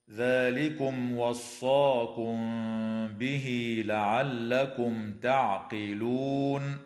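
slow melodic tajweed chant; Quran recitation. Shown as a demonstration. Teacher chanting the verse for students, measured tajweed melody. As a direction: intone the verse slowly with nasal ghunna.

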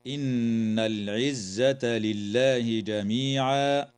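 very slow recitation; slow tajweed reading; Quranic recitation. Shown as a demonstration. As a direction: recite slowly and stop on قولهم. Verse repeated.

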